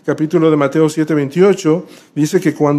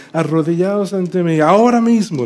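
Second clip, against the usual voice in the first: villain command, rising on ahora mismo; a touch of a hammed-up villain; panto villain; 2 semitones higher than usual. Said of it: "más voz de villano".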